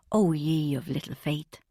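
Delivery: low, knowing whisper; whispered aside. A narrator's reading. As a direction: breathe it like a sly aside to doubters.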